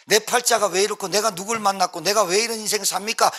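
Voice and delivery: complaining to God, rattled off without a break. Acted. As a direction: lament your lot in mild protest. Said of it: "하나님 원망한다니까". (하늘을 원망하는 넋두리)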